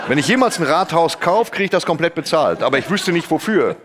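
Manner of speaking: giggling through the words; laughing. Real, not acted. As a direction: laugh while telling the joke.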